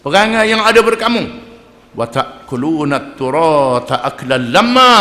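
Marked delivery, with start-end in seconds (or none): 1.9-4.9 slow, drawn-out Arabic chant; measured melodic recitation; Quran recitation. Acted. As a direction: intone the verse like tilawah. Quran verse recited in sermon.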